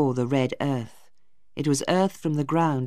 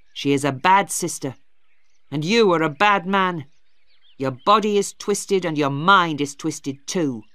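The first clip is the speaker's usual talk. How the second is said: put-on louder, harsh young man hurling insults; angry Tom; 3 semitones higher, 5 dB louder than usual. Brother insults his sister's sweetheart, with harsh contempt. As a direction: lash out with contempt.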